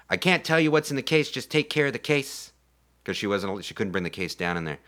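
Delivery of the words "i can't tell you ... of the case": lightly acted urgent request, higher pitch; pleading heroine. Retelling the heroine entrusting her case to the crew, urgent plea.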